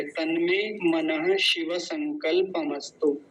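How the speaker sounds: तन्मे मनः शिव संकल्पमस्तु slow, मनः ending in ha; measured तन्मे मनः शिव संकल्पमस्तु; pronunciation demo. Shown as a demonstration. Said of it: "ऐसा है".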